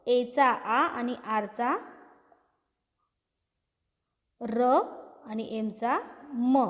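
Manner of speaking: each letter's sound drawn out slowly, one by one. Shown as a demonstration. Teacher to pupils, slowly sounding out each letter. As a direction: spell the word into sounds, slowly for the class. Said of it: "एफचा उच्चार फ".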